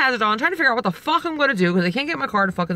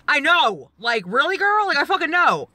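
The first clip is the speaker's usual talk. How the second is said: mildly raised, exasperated retort; retold scream; 5 semitones higher than usual. Driver snapping at a helpful grandma, mock-exasperated retort. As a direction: snap back in mock exasperation, higher but not shouted. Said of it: "I screamed at a grandma".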